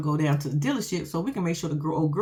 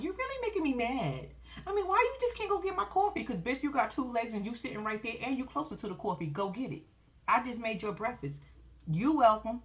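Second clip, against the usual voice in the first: mock-mad with mild sass; attitude; 3 semitones higher, 5 dB quieter than usual. Girlfriend to boyfriend over her coffee, with attitude. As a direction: imitate an indignant girlfriend with attitude. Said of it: "she got an attitude".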